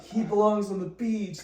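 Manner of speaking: high, loud protest chant; activist shout. Retold or imitated.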